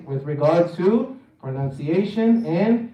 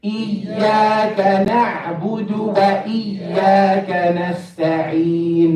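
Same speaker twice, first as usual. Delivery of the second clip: Quran recitation. Shown as a demonstration. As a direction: chant it steadily for others to follow. Leads group recitation.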